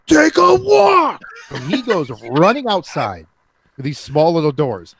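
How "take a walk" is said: high, loud slow scream; screamed order. Retold or imitated. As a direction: roar it at the cowering kid. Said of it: "And he screams".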